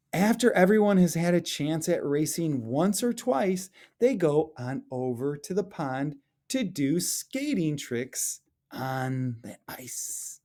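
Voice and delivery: lively storybook read-aloud, rising at the end; expressive children's story narration. Acted. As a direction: read it like a picture book to the class. Teacher reads picture book aloud.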